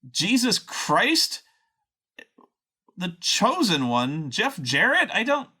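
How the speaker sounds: incredulous rant, pitch climbing up; baffled and fed up, firing questions; exasperated disbelief. Retold or imitated. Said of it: "and I'm going".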